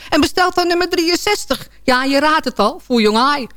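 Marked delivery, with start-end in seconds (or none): 2.9-3.5 hushed punchline. Acted. Punchline, restaurant's dish revealed.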